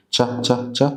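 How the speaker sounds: "تشه" as a short phonics CH; CH sound alone. Shown as a demonstration. Teacher isolating the first sound of chair, short CH. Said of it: "ده صوت ساكن".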